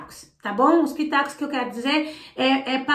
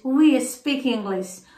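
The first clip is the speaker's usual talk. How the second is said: slow model sentence; slower than usual. Shown as a demonstration. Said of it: "se eu quero falar nós".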